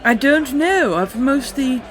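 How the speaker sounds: high and loud, hammed-up elf squeal; horrible high elf voice. Narrating the recap, voicing the elf on the stone: high shrill elf. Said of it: "in a horrible high elf voice".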